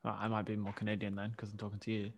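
ordinary delivery

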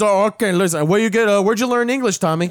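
a hint of the officer grilling Tony; Scarface interrogator. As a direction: quote the interrogator from the scene. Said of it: "his accent, my friend".

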